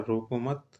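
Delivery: "रोको मत" as one rising phrase, left hanging; pause after मत. Shown as a demonstration. Teacher shows students the moved comma, stopping after "मत". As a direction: join "रोको" to "मत" and stop there. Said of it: "यहाँ बोल रहा है".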